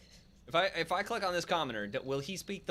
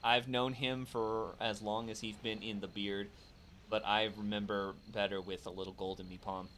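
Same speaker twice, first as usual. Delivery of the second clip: mock pirate; 6 semitones lower than usual. Player reads the pirate line slowly.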